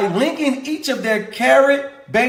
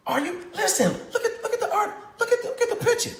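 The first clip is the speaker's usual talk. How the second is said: laughing excitedly; 12 semitones higher, 7 dB quieter, faster than usual. Real, not acted. Laughing over article picture.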